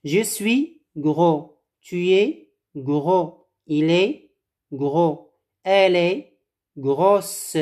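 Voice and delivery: slow, careful conjugation; slow drill. Shown as a demonstration. Teacher slowly modelling the conjugation for the class. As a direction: pace it out for the students to repeat. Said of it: "Vas-y".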